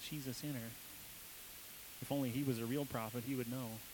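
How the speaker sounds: soft, sneering thought; scornful inner mutter. Acted. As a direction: think it with quiet contempt. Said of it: "answered his thoughts".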